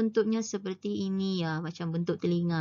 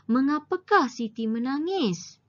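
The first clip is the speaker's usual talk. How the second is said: "mengapakah Siti menangis" pitched high as a question; questioning intonation; 6 semitones higher, 3 dB louder than usual. Shown as a demonstration. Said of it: "intonasi pun seperti intonasi bertanya". ("mengapakah Siti menangis" dengan intonasi bertanya)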